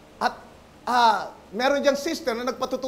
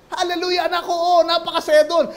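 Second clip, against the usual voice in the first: joyful mother; 4 semitones higher, 4 dB louder than usual. Acted. Mother's joyful reply in story.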